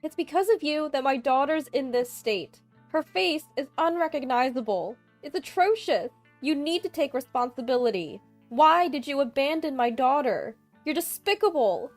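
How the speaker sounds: high, loud furious tirade; wrathful shouting. A narrator's reading. Mother-in-law screaming blame down the phone, furious and high. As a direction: hurl accusations at her, shrieking with rage. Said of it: "the wrathful voice of my mother-in-law".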